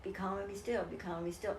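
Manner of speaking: soft, fading mantra; hushed retold chant; repeated mantra. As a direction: repeat it quietly to calm yourself. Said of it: "I said it as a mantra".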